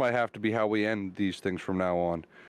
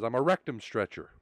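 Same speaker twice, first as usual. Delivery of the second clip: understated, straight-faced delivery; deadpan. Acted. Driver answering the cop's question about his job, deadpan. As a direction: state it matter-of-factly, deadpan. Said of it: "with a dead face and says".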